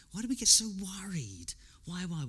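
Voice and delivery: hushed whispered question. Acted. Preacher hushing the congregation to ponder, whispered.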